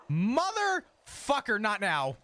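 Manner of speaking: exasperated curse. Real, not acted. Sudden annoyance at in-game event.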